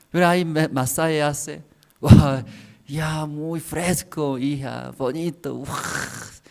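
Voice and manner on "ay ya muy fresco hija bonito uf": drawn-out words of relief, ending in a puff; acted relief. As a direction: sigh with pleasure as if being massaged. Acting out relief during daughter's massage.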